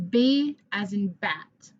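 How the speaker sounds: B as in bat, said slowly; slow and clear for the class; slow model. Shown as a demonstration. Teacher modelling before the class repeats. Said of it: "Your turn".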